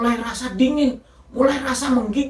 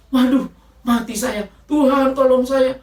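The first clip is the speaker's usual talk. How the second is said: retold panicky cry, a bit louder; louder mock-desperate prayer from the well; panicked plea; 3 semitones higher, 4 dB louder than usual. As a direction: beg God for help as the water rises. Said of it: "Cuma itu yang dia bisa bilang".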